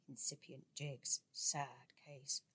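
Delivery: softly whispered aside. A narrator's reading. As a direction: whisper it behind his hand. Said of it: "passing out in whisper".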